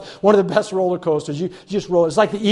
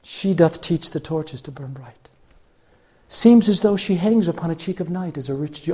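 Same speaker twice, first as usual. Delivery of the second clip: softer, lower recited love verse; quoting Shakespeare; 3 semitones lower, 5 dB quieter than usual. Retold or imitated. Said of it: "I even quoted Shakespeare to her".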